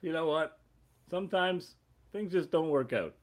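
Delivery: slow, earnest sitcom dad lecture; a hint of a wise TV father. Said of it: "like those guys from those ... eighties sitcom dads".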